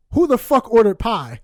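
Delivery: loud furious bark at the table; angry yell. Retold or imitated. Dad yelling at family over pie, angry.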